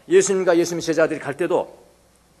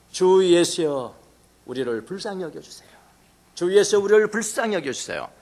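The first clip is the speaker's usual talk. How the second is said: pleading cry; 3 semitones higher than usual. Retold or imitated. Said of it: "그리고 부르짖습니다".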